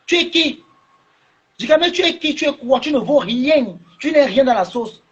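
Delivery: aigu et cinglant, plus haut; écrase-le de mépris à pleine voix; mépris furieux. Real, not acted. Mépris crié au blogueur. (il rabaisse le blogueur d'une voix aiguë et méprisante)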